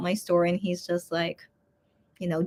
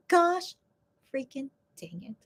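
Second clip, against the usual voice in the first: retold exasperation; 4 semitones higher, 5 dB quieter than usual. Retelling own dismay at spider.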